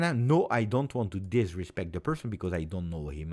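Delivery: ordinary talk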